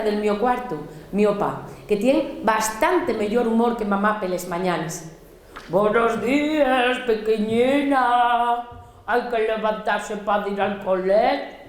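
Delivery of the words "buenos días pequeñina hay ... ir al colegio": muy lento y suave, despertando a su pequeñina; padre tierno. Acted. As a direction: dilo despacito, con cariño. El opa despierta a la niña. (padre que despierta a su hija, tierno y muy lento)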